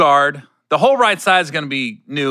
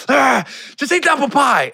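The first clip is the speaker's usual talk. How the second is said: laid-back PA voice; 10 semitones higher than usual. Retold or imitated. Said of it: "I was like".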